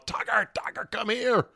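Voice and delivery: high, strained mock shout, held back in volume; imitated distant calling. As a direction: call the runaway dog in a squeezed falsetto. Mimics calling his runaway dog from afar.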